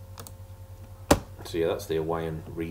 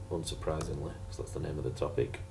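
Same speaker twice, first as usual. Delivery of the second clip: sarcastic; 2 semitones lower, 6 dB quieter, faster than usual. Real, not acted. Teacher stating the obvious to the class, sarcastic. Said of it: "Excuse my, uh, sarcasm".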